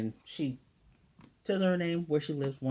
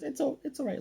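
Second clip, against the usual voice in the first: imitated reassurance. Wife soothing Lloyd in retelling.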